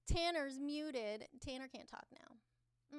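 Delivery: slow, drawn-out, loud gloat; gloating announcement. Real, not acted. Streamer gloating to chat after muting a troll, slowly. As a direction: savour every word slowly.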